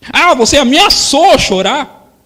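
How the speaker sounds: hammed-up stern father. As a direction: confront the child with a sneer. Father challenging child.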